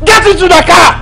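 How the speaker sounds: high, insistent shouted command; angry order. Acted. Femi ordering Bidemi into his car, angry shouted command. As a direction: bark her into the car.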